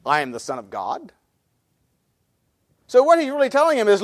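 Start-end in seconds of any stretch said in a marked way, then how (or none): 0.1-1.1 low and soft, set apart; solemn, quiet claim. Acted. Jesus quoted answering the Pharisees, quiet and solemn. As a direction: state it quietly and gravely.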